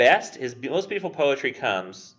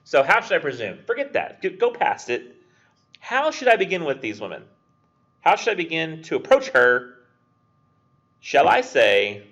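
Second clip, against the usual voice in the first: eager poet planning; 8 semitones higher, 6 dB louder than usual. Retold or imitated. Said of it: "he's like".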